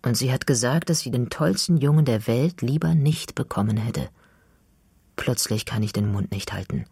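plain reading voice

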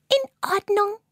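little spider eagerly calls "In Ordnung"; eager agreement. A narrator's reading. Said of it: "ruft Fiona". (hoch und eifrig: „In Ordnung“)

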